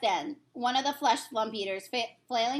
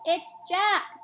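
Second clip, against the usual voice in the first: high, loud bellow; terrified giant bellowing; 6 semitones higher, 4 dB louder than usual. Acted. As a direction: bellow the name in terror. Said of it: "bellowed the fle".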